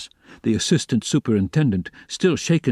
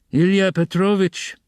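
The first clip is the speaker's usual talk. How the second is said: anxious plea; 7 semitones higher than usual. A narrator's reading. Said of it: "the head clerk was beginning anxiously".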